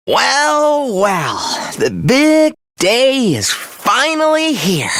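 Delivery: drawn-out theatrical gloat. Acted. Villain taunting Takumi on the big day, gloating. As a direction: savour the big moment with showy relish.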